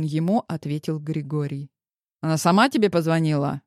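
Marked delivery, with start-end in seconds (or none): none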